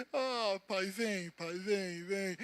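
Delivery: soft, breathy plea to God; hushed prayer. Retold or imitated. Man praying tearfully on the bus, hushed and pleading. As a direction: whisper it as if lost in worship.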